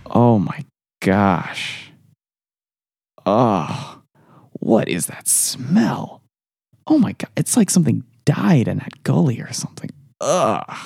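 grossed out by a smell; disgusted. Real, not acted. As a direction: react to a foul stench. Smells something dead.

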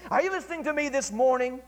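normal talking voice

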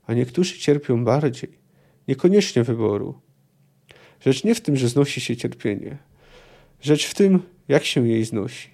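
reading a novel aloud, steady and measured; measured literary reading; story narration. A narrator's reading. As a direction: tell it like an audiobook narrator. Reads torture vision passage.

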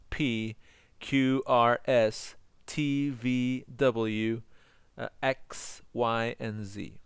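"B, C, D" through "Y, and Z" recited as English letter names in small groups; pronouncing letter names. Shown as a demonstration. Teacher models the consonants in order, measured letter-by-letter delivery. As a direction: recite "B, C, D" to "Z" with pauses for learners. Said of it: "I'm going to pronounce the consonants".

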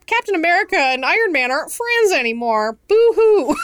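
mock sob over a movie; hammed-up boo-hoo, pitch rising; fake crying. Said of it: "you're just like".

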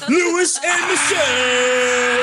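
very high, loud, drawn-out arena shout; fighting game announcer. Pretend. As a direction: hype the crowd like a ring announcer. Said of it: "Give us some announcer voice".

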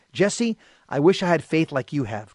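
understated sad confession; a touch of wistful sadness. Retold or imitated. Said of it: "he said to me very sadly".

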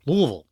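LOUISVILLE as two syllables, LOO-vul; "Louisville" with the middle swallowed; local pronunciation. Shown as a demonstration. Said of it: "but it's pronounced Louisville".

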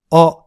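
あ said far back in the throat; throaty French back あ; back-of-throat vowel. Shown as a demonstration. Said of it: "喉の奥で言う".

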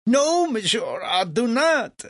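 high, loud French insistence; exclaiming back. A narrator's reading. Legras assures Franklin he is serious, exclaiming loudly. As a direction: fire back with proud certainty. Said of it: "Legras exclaimed back".

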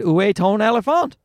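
put-on French question with a heavy English-speaker accent; earnest amateur French accent; poor French accent. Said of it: "that was a perfect accent".

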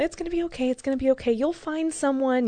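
high-pitched, lightly voiced soothing mom; gentle retold reassurance from mom; imitated comforting mom. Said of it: "trying to talk me through it".

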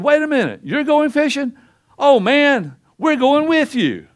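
high, excited voice of the eager disciples. Retold or imitated. Disciples eagerly tell Peter they're coming along, high and excited. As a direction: jump in, thrilled to tag along. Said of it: "his disciples said".

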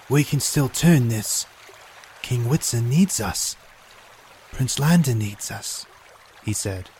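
earnest plea. Acted. Wounded captain pleading loyalty.

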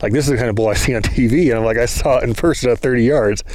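mildly excited retelling, brisk in places; buzzing lightly, telling a buddy; energetic. Retold or imitated. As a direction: retell it with a touch of hyped-up energy. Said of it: "you can see the energy that I have in my voice".

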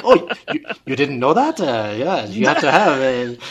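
lightly voiced offhand teammate; a hint of a knowing colleague; casual teammate. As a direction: toss it off like it's obvious. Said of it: "And he's like".

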